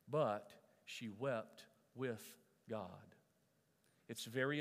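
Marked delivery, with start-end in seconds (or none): 0.1-3.2 reverent. Real, not acted. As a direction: lay it down gently and slowly. Slow reverent emphasis.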